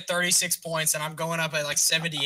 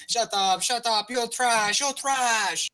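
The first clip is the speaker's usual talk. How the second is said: higher, punchy mock Russian accent; 7 semitones higher, 4 dB louder, much slower than usual. Friend mimicking a Russian rival, Russian-accented yelling. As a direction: imitate a Russian gamer snapping insults. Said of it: "He had, like, some kind of accent".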